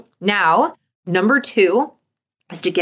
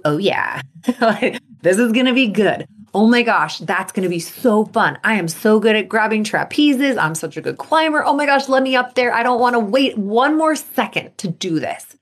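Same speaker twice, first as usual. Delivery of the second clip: mock excited self-talk; 2 semitones higher than usual. Shown as a demonstration. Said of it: "You wanna take it to".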